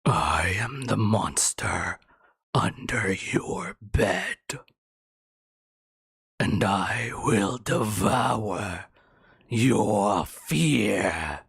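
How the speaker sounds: low slow breathy monster whisper; creepy playful under bed whisper. Acted. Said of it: "the monster side of things".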